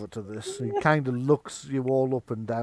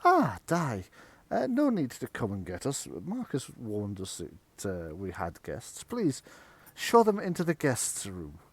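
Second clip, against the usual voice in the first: woman's voice. Acted. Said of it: "a woman's voice this time, go".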